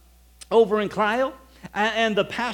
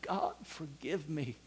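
1 hushed prayer; 4 semitones lower, 13 dB quieter, slower than usual. Retold or imitated. Repenting as presence of God fell.

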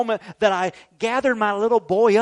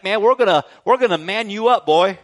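put-on louder, gruff teasing push to toughen the boy; a dad joshing his scared son, a touch louder; tough-love dad; 6 dB louder than usual. Father teasing his son to man up about bugs, louder and gruff. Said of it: "It's like".

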